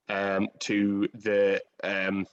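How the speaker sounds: very slow, halting hesitation; struggling to say it. Real, not acted. Host thanking an actor for a difficult scene, struggling and halting. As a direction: stall on fillers, hunting for the words. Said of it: "I'm struggling to say it".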